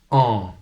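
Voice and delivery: an, ampoule, encre, empêcher said slowly with nasal an; slow textbook pronunciation. Shown as a demonstration. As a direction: hold the nasal an in each word. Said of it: "Then you have the sound".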